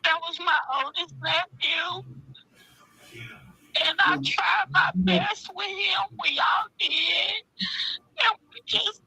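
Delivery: high, tearful, breaking into sobs; pleading through tears; crying. Real, not acted. Aunt grieving her nephew, crying out to the listeners. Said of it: "got people crying on my podcast".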